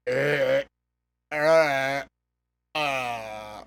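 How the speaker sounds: long, low drawn-out groan; smitten groan. Acted. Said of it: "her with that accent is just like".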